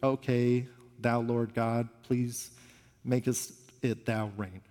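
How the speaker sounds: hint of hollow piety; stiff formal prayer. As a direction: lightly send up an old-fashioned churchy prayer. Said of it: "what he doesn't do is pray".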